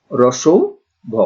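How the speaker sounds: রসৌ ভ said as separate units with a pause; name the short u, pause, then ভ; sounds named separately. Shown as a demonstration. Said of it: "এর উচ্চারণ হচ্ছে".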